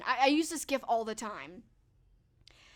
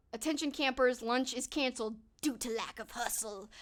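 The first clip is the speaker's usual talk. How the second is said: Ben Stiller impression. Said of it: "do a good Ben Stiller".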